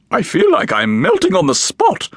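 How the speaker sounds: a visitor gasping in the heat; gasped. A narrator's reading. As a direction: gasp it out, wilting. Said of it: "Hermione Dinkus gasped".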